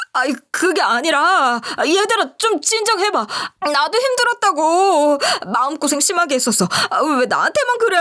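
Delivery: squirm and plead for sympathy; whiny defensive excuses. Acted. A cornered culprit whining at angry classmates, high and pleading.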